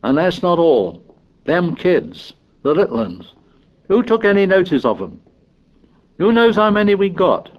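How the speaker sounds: put-on indignant high-pitched boy; Piggy. A narrator's reading. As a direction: press the accusation home, exasperated. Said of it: "listening to the tirade".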